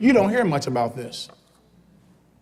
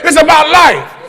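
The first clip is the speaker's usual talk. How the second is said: model line to repeat; 8 semitones higher, 9 dB louder than usual. Shown as a demonstration. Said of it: "I said, turn to him and say".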